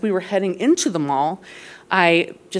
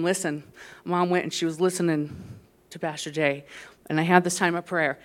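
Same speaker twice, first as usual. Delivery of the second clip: hushed testimony; 7 dB quieter than usual. Real, not acted. Shift into quiet testimony.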